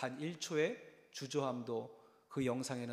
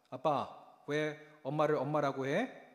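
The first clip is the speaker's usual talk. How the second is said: 느리게, 아이처럼 묻는 목소리; 천진하게 아빠에게 묻듯이; 4 dB louder than usual. Retold or imitated. 아들 목소리로 묻는 장면. (아이 흉내로 묻는 말투)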